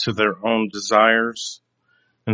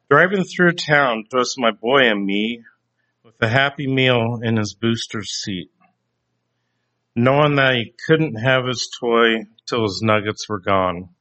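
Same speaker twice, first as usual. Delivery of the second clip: reading song lyrics. Real, not acted. Preacher reading song lyrics to his listeners, spoken not sung. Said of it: "I'd like to read the lyrics here".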